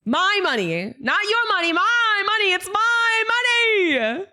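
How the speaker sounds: hammed-up high-pitched tantrum; mock whining. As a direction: wail it like a spoiled cartoon. Whining over lost refund.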